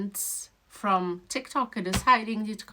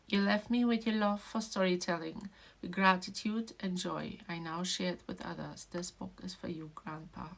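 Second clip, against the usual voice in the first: tearful dedication reading; 5 dB quieter than usual. Real, not acted. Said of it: "reading it over and over again".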